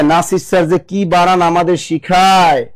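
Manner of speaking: slow, drawn-out mock musing; slowly voiced imagined grumble; imitating students' thoughts. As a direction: stretch it out like students wondering to themselves. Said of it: "মনে মনে কয়".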